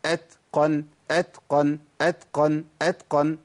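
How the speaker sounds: أتقن with air flowing on the ت; breathy t. Shown as a demonstration. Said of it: "أمشي النفس في المخرج".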